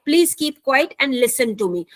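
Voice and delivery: very slow, careful example read; slow teacher demo sentence; slow model sentence. Shown as a demonstration. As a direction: read it slowly word by word. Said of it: "English में".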